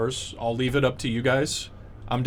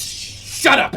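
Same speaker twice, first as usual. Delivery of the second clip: main head; 11 semitones higher, 4 dB louder than usual. Acted. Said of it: "he kinda goes".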